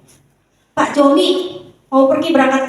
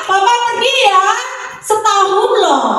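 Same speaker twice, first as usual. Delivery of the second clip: husband's goodbye; 7 semitones higher, slower than usual. Acted. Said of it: "Pak Hariman bilang".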